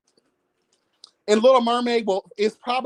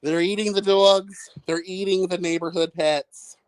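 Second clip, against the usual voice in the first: Trump impression. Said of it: "Remember what Donald Trump said?".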